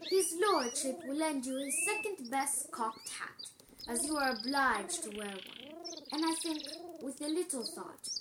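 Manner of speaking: soft, unhurried, kindly valet; kindly manservant. A narrator's reading. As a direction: offer help gently, in small careful phrases. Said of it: "said Procurio kindly".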